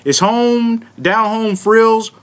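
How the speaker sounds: put-on lightly drawled Southern accent. Host reads a Cracker Barrel article, put-on Southern accent. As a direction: read it out with a touch of Southern twang. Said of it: "I'ma read in my real Southern accent".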